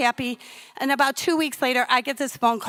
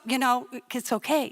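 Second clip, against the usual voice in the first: defusing husband; 4 dB quieter than usual. Retold or imitated. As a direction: talk down a hysterical wife. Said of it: "trying to, you know, diffuse me".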